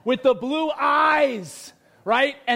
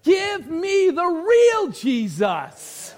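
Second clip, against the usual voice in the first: slow, insistent call for the real Jesus; mock protest, a touch raised; imagined outburst; 3 semitones higher, slower than usual. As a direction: demand it, dragging the last line. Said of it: "And you wanna go".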